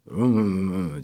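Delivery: deep mock booming "Vım vım vım vım"; teen voice breaking. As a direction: imitate a boy whose voice just broke. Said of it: "hemen ergenliğe giren arkadaşlar".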